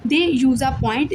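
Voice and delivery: very slow, word-by-word dictation; slow book dictation to students; dictation reading. Shown as a demonstration. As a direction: read it out slowly so they can copy. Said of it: "kindly इसको आपने लिख लेना है अपनी book पे".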